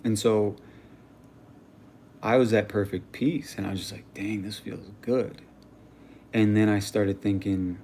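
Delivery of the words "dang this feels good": slow, easy savoring; lightly acted dazed contentment; retold peaceful bliss. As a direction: say it unhurriedly, as if fully at peace. Retold perfect peace after being shot.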